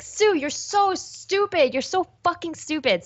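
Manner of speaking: high mock self-scolding, whiny; mock yell at her own mistake; yelling at myself. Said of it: "I will whine and yell at myself".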